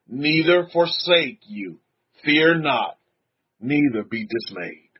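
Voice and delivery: solemn reading aloud; scripture reading. Acted. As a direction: read the verse out deliberately, pausing between phrases. Reads scripture to congregation.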